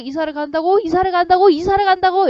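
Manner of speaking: mock disbelief, pitch climbing on each repeat; shocked repeating. Boy brooding over the girl's moving away, shocked repeating. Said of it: "충격받은 거지".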